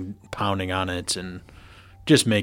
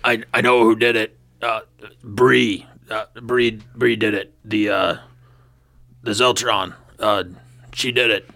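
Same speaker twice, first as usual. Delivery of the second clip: put-on drunk and gagging. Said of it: "it sounds like you're gagging on something. You're a little bit too drunk there".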